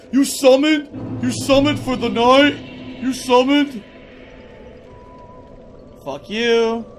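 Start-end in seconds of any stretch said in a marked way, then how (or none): 0.1-3.8 nasal mock of a smug tweeter; mocking Twitter critic. Streamer mocking hateful tweets, sneering. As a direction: sneer it like an online troll. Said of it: "here come the hateful tweets".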